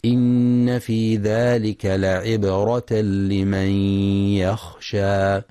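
slow, drawn-out tajweed chanting; measured melodic Quran recitation. Shown as a demonstration. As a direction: recite with full ghunna and long vowels. Recited verse.

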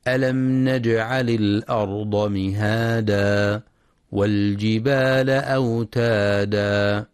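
slow, measured tajweed chant; Quran recitation. Shown as a demonstration. Teacher recites the verse for students, slow tajweed chant. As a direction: draw out each verse like a reciter.

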